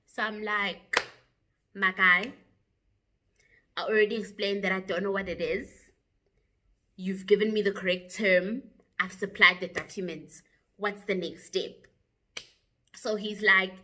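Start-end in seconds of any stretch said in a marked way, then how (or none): 1.8-11.9 retold exasperation, mildly acted; annoyed. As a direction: push back like a fed-up customer. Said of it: "now I'm getting annoyed".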